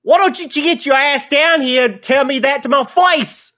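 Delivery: high, loud, furious little dwarf; squeaky enraged dwarf yelling from below; angry dwarf. Acted. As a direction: bark it up at him like a pint-sized brawler. DM voicing a short dwarf.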